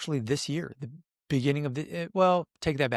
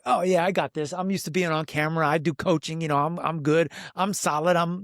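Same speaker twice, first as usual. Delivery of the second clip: breezy, slightly raised and brisk retold confidence; mock self-assurance; 4 semitones higher than usual. Client retelling how he felt when called up, mildly cocky. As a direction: lightly play up being totally unfazed.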